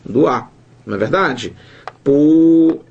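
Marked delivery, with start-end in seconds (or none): 2.0-2.8 POESIA drawn out syllable by syllable, loud; separação silábica. Shown as a demonstration. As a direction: sound out Poesia as po-e-si-a, stretched. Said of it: "o I fica sozinho". (Poesia bem alto, sílaba por sílaba)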